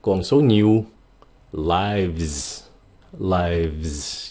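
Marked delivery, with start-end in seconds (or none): 1.5-4.3 Lives. with a clear v gliding into z; Lives. sounding the v then the z; Lives. slowly voicing v and z. Shown as a demonstration. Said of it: "So âm V cái xong rồi âm Z".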